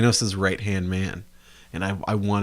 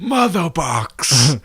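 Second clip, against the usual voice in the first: very slow, higher, louder villain growl; villain impression; 5 semitones higher, 6 dB louder, much slower than usual. Fan mocking Steppenwolf's catchphrase, hammed-up villain. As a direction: stretch out MOTHER BOX theatrically.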